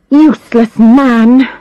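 slow, scornful dismissal; contemptuous. Acted. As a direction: spit it with contempt. Muttered insult.

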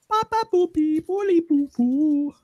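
mocking caseworker gibberish. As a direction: babble like a clueless clerk. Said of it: "And then she said".

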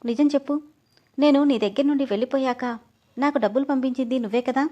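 a hint of tears while demanding the truth; sobbing. Amrutha pressing her husband, lightly tearful. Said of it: "వెక్కిళ్ళు పెడుతూ".

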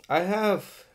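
stuffy runny nose; blocked nose. Real, not acted. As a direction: talk through a runny nose. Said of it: "mucus running down my nostrils".

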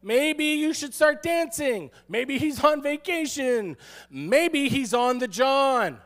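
high, drawn-out mock suggestions; slow, teasing pretend helpfulness; straight-faced taunting. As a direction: stretch each idea out to needle them. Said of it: "With a straight face".

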